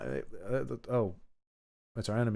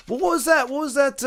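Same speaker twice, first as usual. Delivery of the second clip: surprised; 12 semitones higher than usual. Real, not acted. Startled by game music.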